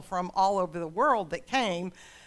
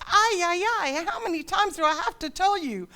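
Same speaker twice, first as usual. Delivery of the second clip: loud, higher, anguished plea, stretched slow in places; God pleading; 9 semitones higher, 9 dB louder than usual. Acted. God begging his people to love each other, loud and anguished. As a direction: cry out to them like a heartbroken father. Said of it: "God's like".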